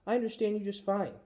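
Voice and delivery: high, eager little hamster voice; squeaky hamster. A narrator's reading. Hamster reassuring the girl he understands, high squeaky. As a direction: insist in a bright squeak.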